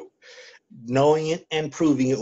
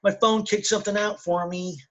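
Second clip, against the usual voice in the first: sudden excitement; 8 semitones higher than usual. Real, not acted. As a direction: stop everyone, something just popped up. Phone suddenly alerts mid-conversation.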